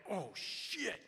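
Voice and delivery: hammed-up "uh-oh" moment; mock dread. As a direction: stretch it out as the dread sinks in. Acted dread, she is still staring.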